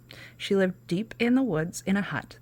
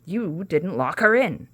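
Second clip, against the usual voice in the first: loud slow furious witch; angry witch; 5 dB louder, slower than usual. Acted. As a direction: scold the gate angrily.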